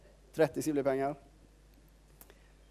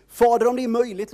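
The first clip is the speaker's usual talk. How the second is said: louder, higher plea to the Father; crying out to God; 7 semitones higher, 9 dB louder than usual. Acted. Jesus cries out to God in anguish, loud and high. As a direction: cry the prayer out in anguish. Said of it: "ropar han till Gud".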